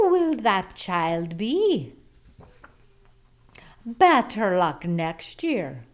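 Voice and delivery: slow. Acted. Slow teasing ending of story.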